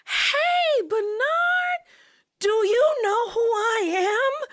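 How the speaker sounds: high, slow, sing-song mom voice calling his name; imitating mom. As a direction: call him gently from way up high, drawn out. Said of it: "my mom goes".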